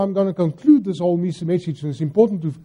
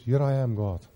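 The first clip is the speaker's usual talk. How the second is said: much softer, sinking low and quiet; humble surrender; 5 semitones lower, 9 dB quieter than usual. Retold or imitated. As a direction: give yourself up gently, almost under your breath. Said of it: "True humility says".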